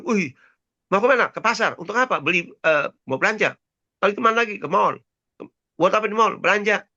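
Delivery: quick Jakarta back-and-forth; brisk Jakarta talk. Retold or imitated. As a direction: rattle off the questions like a Jakartan. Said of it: "Cepat sekali kita ngomong".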